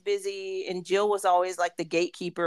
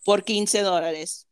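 street vendor call; slower than usual. Shown as a demonstration. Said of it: "you gotta talk like a street vendor".

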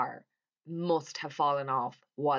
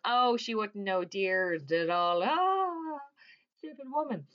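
mock dismissive; 6 semitones higher, slower than usual. Acted dismissive covering up before cops.

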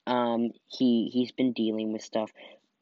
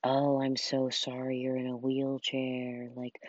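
softer, slow mock-sympathetic pity; 6 dB quieter than usual. Mocking how people pity her in a wheelchair, slow and soft. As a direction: imitate people's syrupy pity. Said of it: "how other people talk to me".

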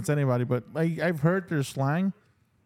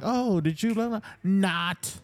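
higher mock-innocent question, then a flat-out retort; mock nineties sarcasm; 5 semitones higher, slower than usual. Friend demonstrating old nineties slang, mock sarcastic. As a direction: set up the fake question, then drop the punchline.

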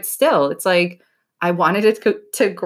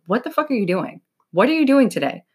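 blunt self-check; 3 semitones higher than usual. Shown as a demonstration. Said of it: "the reason I say it like that".

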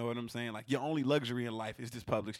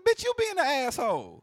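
loud, high-pitched comeback; heated storyteller, pitch way up; retold angry insult; 14 semitones higher, 8 dB louder than usual. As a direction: re-enact firing back in an argument. Retelling his insult to customer.

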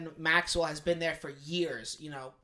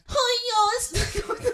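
put-on Spanish accent; 5 dB louder, slower than usual. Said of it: "What the f- was that?".

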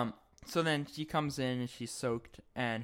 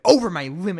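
mock Connie; 4 semitones higher, 10 dB louder, faster than usual. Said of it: "She's like".

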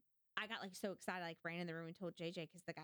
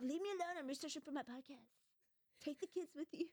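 higher, playfully bossy; mock bossy; 7 semitones higher than usual. Wife shooing husband away with kids, mock bossy higher. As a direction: shoo him off in jest. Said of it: "I'm like".

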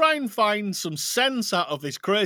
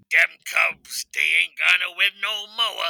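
put-on Chicago accent. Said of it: "he said, allegedly".

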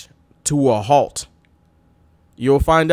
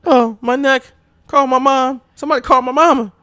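whiny, higher cry for mama; mock injured wrestler; 10 semitones higher than usual. Wrestler faking injury, crying for his mama, hammed up. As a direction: ham up a fake neck injury. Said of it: "Buff Bagwell pretends".

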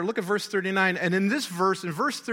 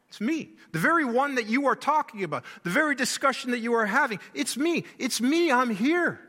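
higher, fast, insistent It's me; eager reassurance; 4 semitones higher than usual. Acted. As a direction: press it home, pitched up and quick. Preacher voicing Jesus' reassurance.

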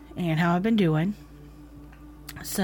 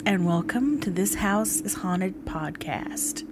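vintage horror narrator; slower than usual. Acted. Spooky horror podcast host greeting.

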